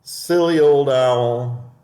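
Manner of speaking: high, slow, pleased mouse voice; sly mouse chuckling to itself; smug little mouse. Acted. Mouse mocks the fled owl.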